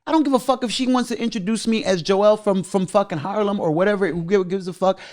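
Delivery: high-pitched retold tirade, easing down toward the end; worked-up swearing rant, starting very high and settling; going off. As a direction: replay yourself telling them off. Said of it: "you know, I went off on".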